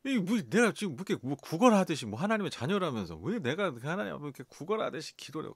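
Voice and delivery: petulant complaining to God, half laughing; irritated complaint. Retold or imitated. Preacher retelling his irritated prayer to God, mock petulant. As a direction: grumble at God like a wronged child. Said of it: "갑자기 신경질이 나는 거예요".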